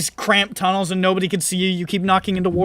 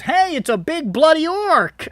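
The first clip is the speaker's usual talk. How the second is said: high, excited bystander shout of alarm; 10 semitones higher than usual. Retold or imitated. City guy spotting the bleeding orc, alarmed. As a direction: point and yell at the monster. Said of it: "some guy says".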